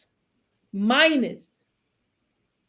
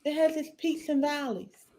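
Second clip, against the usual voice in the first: choked up, softer; 3 semitones higher, 6 dB quieter than usual. Real, not acted. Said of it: "I'm just all choked up".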